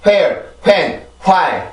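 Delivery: where, when, why with an aspirated H; breathy H wh-words. Shown as a demonstration. Teacher warns students against adding H. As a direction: show the wrong breathy H. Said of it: "이렇게 읽으면 절대로 안 됩니다".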